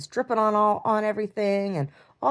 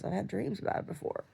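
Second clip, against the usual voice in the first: whisper; 9 dB quieter than usual. Real, not acted. Drifts into a whisper.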